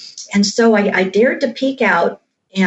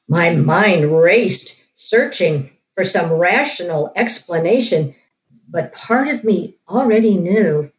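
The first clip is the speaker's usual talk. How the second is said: hushed creeping horror. A narrator's reading. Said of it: "I'm gonna read this part from the book".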